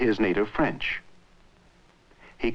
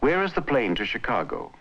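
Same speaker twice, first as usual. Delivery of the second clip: "Where is the plane to Chicago?" level until the main stress, then falling; American intonation; 3 semitones higher than usual. Shown as a demonstration. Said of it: "An American speaker would say".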